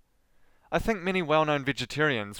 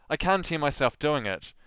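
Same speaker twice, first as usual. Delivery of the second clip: normal talking voice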